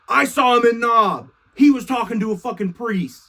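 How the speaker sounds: rat him out eagerly; eager snitch. Retold or imitated. Doug snitches on David to Saul.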